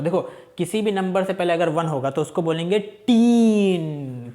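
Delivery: slow, emphatic rule ending on "टीन"; a teacher repeats the rule deliberately; restating the rule. Shown as a demonstration. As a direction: spell out the rule slowly so the class hears "टीन". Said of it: "अभी मैंने थोड़ी देर पहले बताया".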